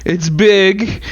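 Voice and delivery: mock vice president. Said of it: "Isn't that what she said?".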